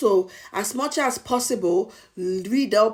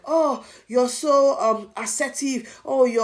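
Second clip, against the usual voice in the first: mocking coworkers; 5 semitones higher, 3 dB louder, slower than usual. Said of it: "and they'll be like".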